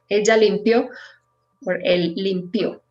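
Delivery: limpió stressed on -PIÓ; stress on the end. Shown as a demonstration. Teacher models ella limpió and él limpió, final stress. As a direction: land on the last syllable of limpió. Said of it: "verb in past".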